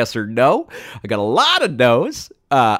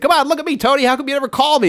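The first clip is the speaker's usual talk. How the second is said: very high mock-desperate plea; imitating a friend close to tears; desperate pleading; 12 semitones higher, 4 dB louder, faster than usual. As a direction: wail it like a hurt, needy friend. Friend pleads, about to cry.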